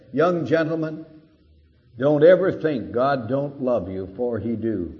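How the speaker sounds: lightly voiced plain-spoken preacher; a hint of old Moody pointing at the students; quoting Moody. Preacher retelling Moody to rowdy students, light impression. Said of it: "ungrammatical beginning".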